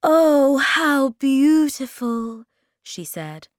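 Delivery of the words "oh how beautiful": high, loud, drawn-out delight. A narrator's reading. Moomin Mama finds flowers in her room, loud delight. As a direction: exclaim slowly in wonder.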